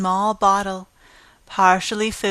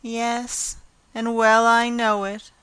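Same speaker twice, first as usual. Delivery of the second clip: mournful admission; 2 semitones higher than usual. Acted. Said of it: "admitted Anne mournfully".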